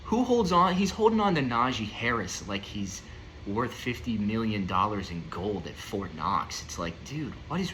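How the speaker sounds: exasperated fantasy manager yelling at a stubborn trade partner; worked up. Real, not acted. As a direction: let the anger boil over into a high yell. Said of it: "I'm just getting worked up".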